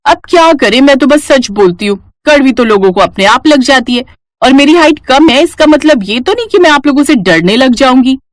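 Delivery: a lightly voiced defiant niece; cheeky Naina. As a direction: talk back without backing down.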